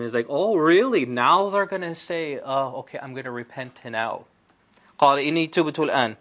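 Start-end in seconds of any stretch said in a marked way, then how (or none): 0.3-4.3 sarcastic. Retold or imitated. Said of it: "So there's a bit of sarcasm". 5.0-6.2 fast melodic Quranic recitation; تلاوة القرآن بسرعة. Acted.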